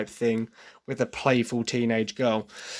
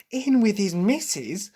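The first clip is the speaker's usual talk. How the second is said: high, drawn-out mock singing with an edge; pointed sing-song annoyance; sharp, annoyed; 9 semitones higher, slower than usual. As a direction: imitate a sharp, slow, high-pitched jab. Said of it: "a lot more of a sharp sort of".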